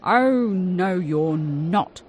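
loud, stern refusal; firm guard. A narrator's reading. Security guard throwing them out, loud and stern. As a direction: shut him down. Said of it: "said the security guard".

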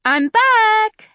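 high and loud, bursting with joy; cried out. A narrator's reading. Wilma announcing her return home, high happy shout. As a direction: announce it to the whole house. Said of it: "Wilma cried".

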